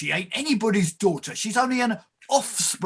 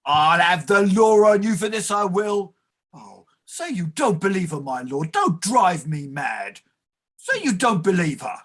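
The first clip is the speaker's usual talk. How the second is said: frantic pleading. Acted. Clerk pleads with his lord.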